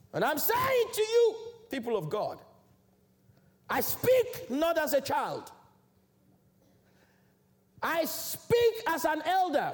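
high, slow declaration to the congregation; preacher driving home each key word; emphatic preaching. Real, not acted. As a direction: proclaim it with weighty pauses.

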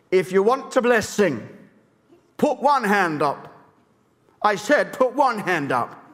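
lightly voiced strict revival preacher; slow, mildly stern call to the congregation; Smith Wigglesworth. Preacher retelling how Wigglesworth started meetings, lightly imitated strictness. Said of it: "he was very strict".

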